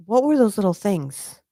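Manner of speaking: ordinary talk, nothing marked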